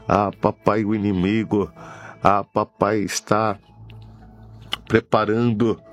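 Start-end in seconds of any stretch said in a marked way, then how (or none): none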